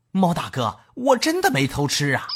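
mildly scared mouse, pitch rising into the denial; frightened pleading. Acted. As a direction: plead innocence with a touch of fright. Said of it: "耗子吓坏了". (略带惊慌地辩解)

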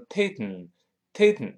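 "taken" wrongly nasal-exploded; mis-say "taken" with a nasal pop. Shown as a demonstration. Teacher shows the wrong pronunciation of "taken", nasal. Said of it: "不能读成".

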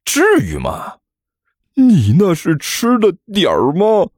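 exasperated, rising into a high yell; irritated bellow. Acted. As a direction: snap back crossly. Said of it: "没好气地吼了一嗓子". (没好气地吼)

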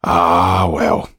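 a weary sighing "ah, well". Acted. Dufour sighs at the footman's news, weary sigh. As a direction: sigh it out, resigned. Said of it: "sighed Dufour".

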